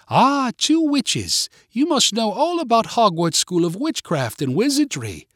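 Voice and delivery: high, theatrical British greeting; British accent. A narrator's reading. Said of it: "in her British accent".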